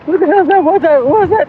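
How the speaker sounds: high startled protest; sudden high alarmed questions. Real, not acted. Suspect being grabbed.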